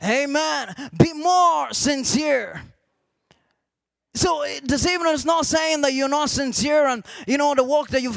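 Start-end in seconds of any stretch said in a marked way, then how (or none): 1.0-2.6 slow phrase with "more" stretched out; stress on more. Shown as a demonstration. Preacher repeating the key words to congregation, long stressed "more". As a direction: hold "more" long before "sincere".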